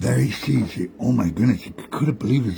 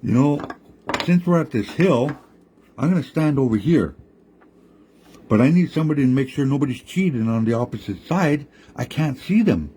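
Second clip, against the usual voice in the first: higher, coaxing trickster voice; lightly raised sly coyote; reassuring Coyote; 5 semitones higher than usual. Acted. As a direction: soothe the frightened frogs. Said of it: "Coyote jumps out and says".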